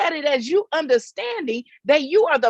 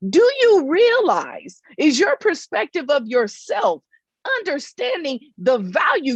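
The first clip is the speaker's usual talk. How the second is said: louder slower repeat. Shown as a demonstration. Preacher repeating her question to viewers, louder and slower. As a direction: lean in hard on the second ask. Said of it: "let me ask you that again".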